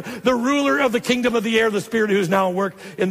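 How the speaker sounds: high, excited scripture reading; Paul. Retold or imitated. Preacher reading Paul's description of the enemy, excited. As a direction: press on through the verse excitedly. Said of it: "'Cause he's so excited".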